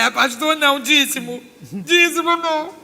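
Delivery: loud retold refusal, stretched at the end; comic protest. Refusing pastors and tithes to the doctor, comic protest. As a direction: object loudly with mock alarm.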